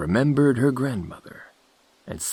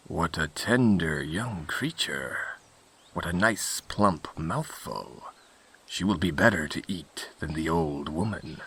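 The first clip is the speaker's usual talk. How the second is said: low-key crafty wolf, thinking aloud; scheming wolf; 3 semitones lower, 4 dB quieter than usual. Acted. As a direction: plot softly to yourself as a sly wolf.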